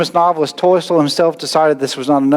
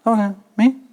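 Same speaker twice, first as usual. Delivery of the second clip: doubtful disbelief; 6 semitones higher than usual. Retold or imitated. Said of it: "looked around and gone".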